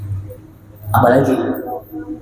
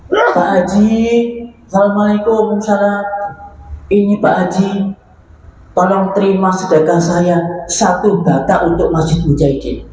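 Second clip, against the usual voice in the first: humble poor man; 4 semitones higher than usual. Acted. Poor man offering one brick.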